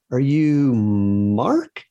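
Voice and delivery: slow, high, drawn-out question; unsure guess. Retold or imitated. Mother guessing who her child is, slow and unsure. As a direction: imitate a puzzled mom, stretching the name.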